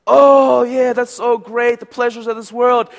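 high, loud mock ecstasy; hammed-up bliss. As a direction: revel in it slowly and theatrically. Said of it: "I'm gonna do different voices".

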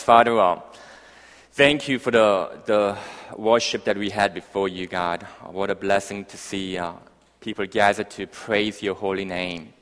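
earnest, measured public prayer. Real, not acted. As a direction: lead the church in thankful prayer. Leads a prayer.

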